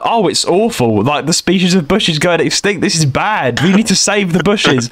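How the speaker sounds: mock-earnest concern, pitch dropped from the rant; feigned polite concern. Man humouring a charity caller, feigned earnest concern. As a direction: politely pretend that you care. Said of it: "I pretended to be polite".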